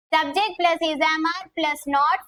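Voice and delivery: extremely slow, each word stretched; slow rule dictation. Shown as a demonstration. Teacher dictating grammar rule.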